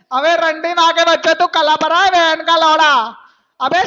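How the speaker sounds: loud jeering yell at a silent rival; taunting shout. Real, not acted. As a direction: bellow the taunt. (चिल्लाकर ताना मारना)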